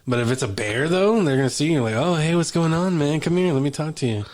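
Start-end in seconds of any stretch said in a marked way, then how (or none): 1.9-4.2 stoner voice. Retold or imitated. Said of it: "Why does he sound like a stoner?".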